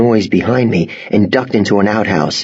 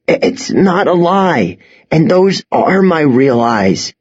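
stammering protest; 6 semitones higher than usual. Acted. Scared boy protests.

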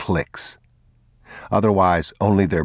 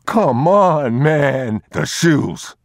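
high, loud disbelief; can't believe he wants the shoes; incredulous thief; 10 semitones higher, 5 dB louder, much slower than usual. Acted. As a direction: thief protesting to the father.

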